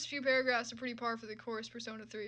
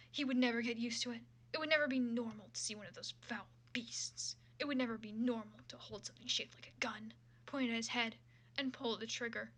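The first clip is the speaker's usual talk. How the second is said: steady dramatic reading of a fan fiction; story narration. Acted. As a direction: read the prose like an audiobook. Resumes reading fanfic narration.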